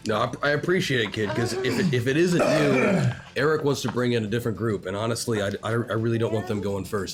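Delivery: lightly voiced smoky old mentor; a hint of a whiskey-and-cigarettes voice; smoker whiskey voice. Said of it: "Smoker Whiskey voice".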